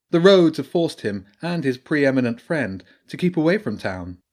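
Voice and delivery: badger priestess voice. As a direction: speak as the learned priestess warning of an old evil.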